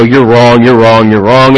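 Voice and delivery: stubborn, repeated you're wrong; defensive retort. Retold or imitated. Pastor wanting to defend himself against critics, insistently. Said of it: "I just want to just go".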